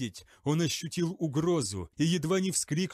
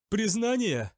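higher, louder cry of disbelief; shocked shout; 7 semitones higher, 3 dB louder than usual. A narrator's reading. Zachariel shouts back at his interrogator, aghast. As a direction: fling the word back aghast. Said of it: "крикнул Захариэль".

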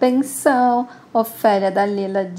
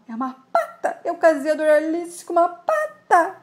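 laughing through the line; 6 semitones higher than usual. Acted. Mirna conta a descoberta rindo.

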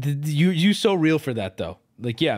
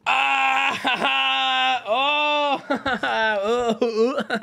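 laughing; 10 semitones higher, much slower than usual. Real, not acted. Laughing at own joke.

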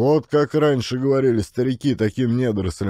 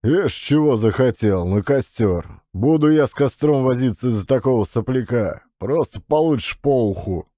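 mocking threat; 3 semitones higher than usual. Father threatens his cheeky son.

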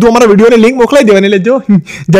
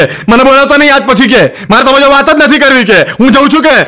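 mock huff, slightly raised pitch; acted huffy wife; 3 semitones higher than usual. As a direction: play a wife declaring she's done talking. Wife storms off in quarrel.

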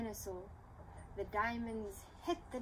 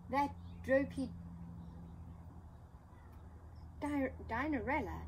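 laughed; 5 semitones higher than usual. Acted. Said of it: "laughed Doris".

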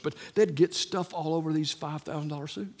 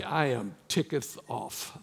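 mock King James; 2 semitones lower, slower than usual. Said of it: "as King James would say".

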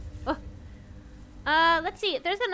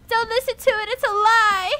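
mock desperate protest; 5 semitones higher, 5 dB louder than usual. Protests the eight ball's answer.

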